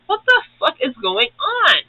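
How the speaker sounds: high confused outburst; mock bewildered. Future ninja seeing Kai and Nia, high bewildered outburst. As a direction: ask it up high in disbelief.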